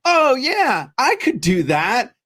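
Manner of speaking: high, breezy mock enthusiasm; naive confidence. Viewer watches a cooking video and overestimates himself, breezily confident. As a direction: start high, then draw it out cockily.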